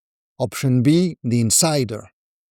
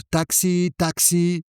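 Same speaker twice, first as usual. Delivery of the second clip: calling out; 3 semitones higher than usual. Acted. Drivers touting outside the airport, mild calling out. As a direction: lightly imitate touting drivers, pitch lifted. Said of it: "drivers calling out".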